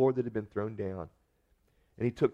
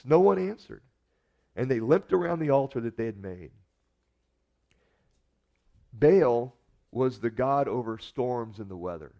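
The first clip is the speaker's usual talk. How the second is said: ordinary talk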